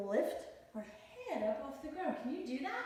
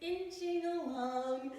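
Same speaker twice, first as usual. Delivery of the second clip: slow sing-song; 3 semitones higher, much slower than usual. Shown as a demonstration. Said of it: "like a caterpillar".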